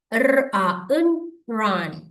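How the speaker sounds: "இர், அ, இன்" apart, then joined "ரன்"; phonics blending. Shown as a demonstration. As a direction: roll out each sound, then blend "ரன்". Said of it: "இதுல என்ன செய்யணும் பாருங்க".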